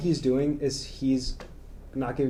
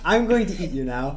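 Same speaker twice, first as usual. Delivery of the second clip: laughing; 3 semitones higher, 4 dB louder than usual. Pretend. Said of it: "say his most popular line".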